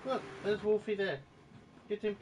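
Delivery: very high pet voice. Real, not acted. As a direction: coo at the dog. Talking to pet.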